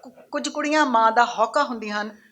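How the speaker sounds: lifted opening, falling line ends; poem recitation. Acted. Poet reciting her poem about girls to an audience, declaimed recitation. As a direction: declaim each line to the room, then pause.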